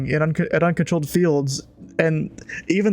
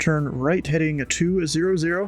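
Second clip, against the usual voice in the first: crisp, clipped controller read of the clearance; ATC radio call. Acted. Controller on frequency vectoring the pilot onto approach, crisp radio read. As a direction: rattle it off like a tower controller on frequency.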